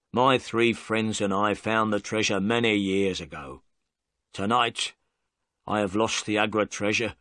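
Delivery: gruff-leaning, unapologetic confession; lightly voiced defiant prisoner. Prisoner defying Holmes, lightly voiced and defiant.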